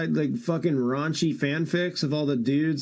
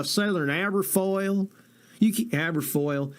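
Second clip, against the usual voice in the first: put-on Southern accent; 4 semitones higher than usual. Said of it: "You can't even say it without sounding Southern".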